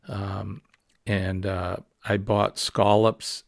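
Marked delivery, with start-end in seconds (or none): 2.0-3.4 scallops said slowly with a broad ah, skahl-ups; Maine scallops. Shown as a demonstration. Vlogger showing viewers his Maine way of saying scallops. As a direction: stretch out scallops with an open ah vowel. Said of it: "that's how we say them".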